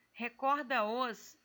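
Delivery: slow recorda-os with da and os fused into one syllable; joined syllables. Shown as a demonstration. Teacher to students, showing recorda-os scanned as one syllable. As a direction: draw out recorda-os, gliding da into os. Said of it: "esse dá e essa sílaba os vai ficar junto".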